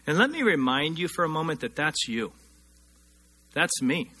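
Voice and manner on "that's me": normal talking voice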